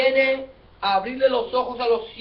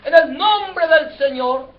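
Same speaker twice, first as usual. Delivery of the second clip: raised, acclaiming shout; crowd shouting; 4 dB louder than usual. Acted. People shouting as Jesus enters, acted crowd acclamation. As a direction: cheer like a crowd hailing its king. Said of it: "y la gente gritando".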